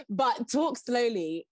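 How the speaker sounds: drawn-out, deliberately slow; slow right down to show it. Shown as a demonstration.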